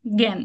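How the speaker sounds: জ্ঞান with a single g and nasal vowel; nasalised g sound. Shown as a demonstration. Teacher showing the rule, nasal g in জ্ঞান. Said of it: "চন্দ্রবিন্দু সহ উচ্চারণ গ".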